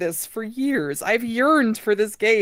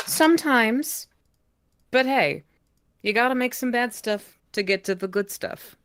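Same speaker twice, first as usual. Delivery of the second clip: upbeat pep talk; 4 semitones higher than usual. Acted. Friend cheering on the Sonic fans, bright and upbeat. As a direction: cheer the group up about bad mods.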